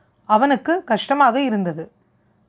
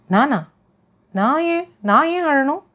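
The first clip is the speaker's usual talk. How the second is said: higher, stammering to hide being caught out; a flustered, higher stammer; flustered denial; 4 semitones higher than usual. Acted. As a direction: trip over the words, caught off guard. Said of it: "தன்னுடைய தடுமாற்றத்தை மறைத்து கொண்டு கேட்டாள்".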